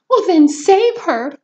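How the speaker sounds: high, loud, slow desperate plea; wife crying out to her husband to act. Acted. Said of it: "cried Missus Salt".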